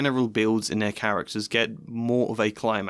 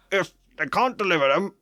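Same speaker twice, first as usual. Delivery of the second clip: Vernon; 5 semitones higher than usual. Acted. Vernon voiced in a read scene.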